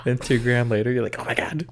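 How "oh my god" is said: very high, hammed-up excited squealing; mock fangirl squeal. Mocking own hype about seeing a band, squealed excitement. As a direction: gush in a squeaky fangirl imitation.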